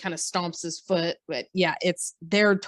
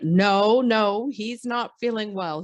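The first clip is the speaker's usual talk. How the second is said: mock firm refusal; 2 semitones higher, 3 dB louder, slower than usual. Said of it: "And she's like".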